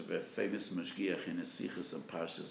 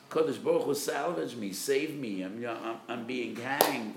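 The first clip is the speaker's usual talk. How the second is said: raised, pleading cry of a man on the gallows; desperate cry; 3 semitones higher, 6 dB louder than usual. Acted. Preacher voicing a man on the gallows, desperate cry. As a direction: beg for rescue, louder and louder, slowing at the end. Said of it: "crying out of desperation".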